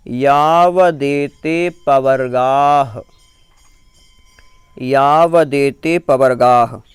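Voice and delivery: measured chant, word by word; recited Sanskrit verse, slow. Shown as a demonstration. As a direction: recite slowly for pupils to repeat.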